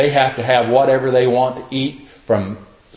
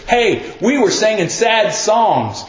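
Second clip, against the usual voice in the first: calling out; 6 semitones higher than usual. Acted. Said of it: "the other side calls out and says".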